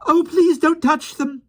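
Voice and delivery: crying out wildly. A narrator's reading. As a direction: plead frantically for them. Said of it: "Jane cried wildly".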